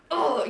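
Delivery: mock-furious groan; frustrated groan. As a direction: let out an exasperated ugh. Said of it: "I'm just so mad".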